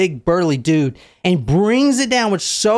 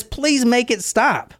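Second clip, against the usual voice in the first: pleading; 7 semitones higher, slower than usual. Retold or imitated. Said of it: "the killer says".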